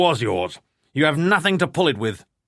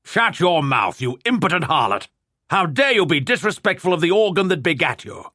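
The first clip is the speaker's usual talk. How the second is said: put-on outraged old lord, higher and louder; indignant protest; 7 semitones higher, 3 dB louder than usual. A narrator's reading. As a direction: bellow it at your daughter in outrage. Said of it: "his lordship protested".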